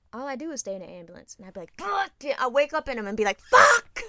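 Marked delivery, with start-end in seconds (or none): 1.8-2.1 sharp, high startled swear; startled curse. Retold or imitated. Waking up in ambulance, shocked. 3.4-4.0 loud, high panicked swear; startled shout. Retold or imitated. Waking up in ambulance, shocked.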